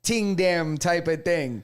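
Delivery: a light Toronto patois "ting dem", slowed; Toronto slang accent. Retold or imitated. Friend imitating how a rapper talked when young. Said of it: "He's talking this, like".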